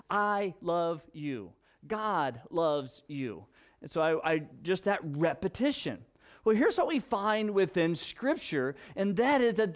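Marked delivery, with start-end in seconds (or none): 0.1-3.4 gentle parental blessing; tender. Shown as a demonstration. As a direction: say it slowly like a bedtime blessing. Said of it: "to tell them every day".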